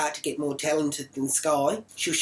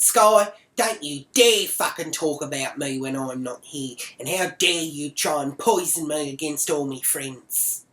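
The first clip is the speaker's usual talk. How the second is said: snapping at Sky. Retold or imitated. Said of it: "And then I snapped".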